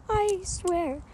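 slow, menacing revenge vow; dramatic vow. Acted. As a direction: swear vengeance like a villain. Vowing revenge on culprit.

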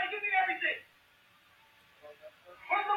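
high, squeaky robber voice; shrill little robber demanding money; frantic shouting hostage taker. Retold or imitated.

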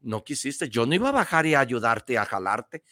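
a hint of a patient God scolding; God's voice. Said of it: "le dijo Dios".

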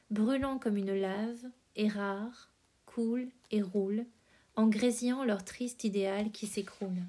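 measured verse recitation with pauses between phrases; poem reading. A narrator's reading. Podcast host reading Verlaine's preface to listeners, measured poem recitation.

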